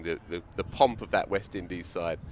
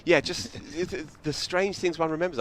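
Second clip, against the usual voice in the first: laughing; 7 semitones higher than usual. Real, not acted. Laughing while recalling an odd memory.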